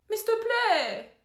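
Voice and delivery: high, slow drawn-out begging; pleading whine. Acted. Angel begging the demon to swap places, pleading. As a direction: plead desperately.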